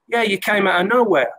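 high amateur Scouse imitation; retold in a mock Scouse accent; Tony Warner, rough Scouse. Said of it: "This Scouse accent. I'm not good with Scouse accents".

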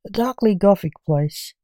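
loud, theatrical podcast introduction; grand announcer intro. Acted. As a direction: announce it with gothic ceremony.

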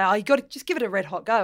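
lightly imitated Aussie accent; Australian accent. Presenter recalls Australian gig-goers' saying, in mock Aussie accent. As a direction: quote locals with an Australian twang. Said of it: "I love your accent".

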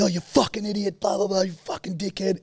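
high-pitched imitation of a street row; retold yell, high and contained; mock yelling. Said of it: "they're just yelling".

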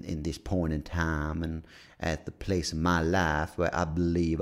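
slow speechifying American drawl; put-on American drawl. Host inviting guests onto the podcast, put-on American drawl. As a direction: stretch the vowels in a mock American twang. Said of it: "I swear I won't talk like this".

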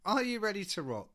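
MC's crowd rouser; hyping the crowd. Acted. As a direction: call it out to a rock audience.

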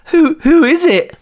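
high, strained phone voice; creepy caller voice. Acted. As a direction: ask it like a spooky caller. Scared caller voice, far.

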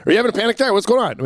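a light imitation of a panicked partner; mock frantic. Husband mimics how he should not react to her anxiety, mock frantic. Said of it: "and not saying".

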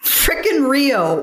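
slow disgusted drawl; exasperated deadpan. Real, not acted. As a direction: sigh it out in disbelief. Exasperated answer.

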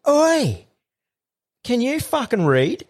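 high, sharp mock yell at the cleaner; angry yell. Yelling at cleaner in corridor.

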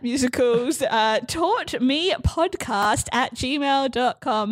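slow, careful email address read-out; slow dictation. Real, not acted. Host asking listeners to email the show, slow and careful. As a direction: spell it out so listeners can write it down.

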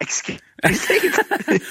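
high, drawn-out laughing reaction; incredulous, cracking up as you say it; startled squeal of amusement; laughing disbelief. Real, not acted. Startled by rude-sounding British slang.

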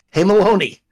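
a hint of a joking boss breaking up the chatter; mock GM scolding. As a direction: imitate a manager lightly telling staff off. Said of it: "the G M will walk into".

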